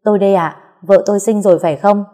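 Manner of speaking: a new father, hopeful and glad; joyful. Acted. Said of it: "Giọng nói của Quý vui mừng cất lên".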